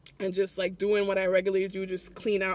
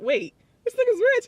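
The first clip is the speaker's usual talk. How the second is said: shocked realization; 14 semitones higher, 5 dB louder than usual. Retold or imitated. Retold shock at his wealth.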